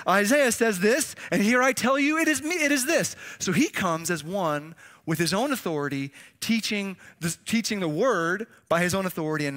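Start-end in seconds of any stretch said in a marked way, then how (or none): 0.1-3.2 authoritative Jesus. Retold or imitated. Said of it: "Or he says".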